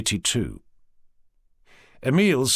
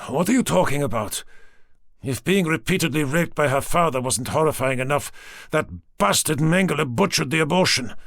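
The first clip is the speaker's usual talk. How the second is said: raised, rising anger as he defends her; angry outburst; 4 semitones higher than usual. Acted. Emile furious at Smith's heartless remark, angry raised voice. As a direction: spit out the outrage at the bastard. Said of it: "He glowered at his antagonist".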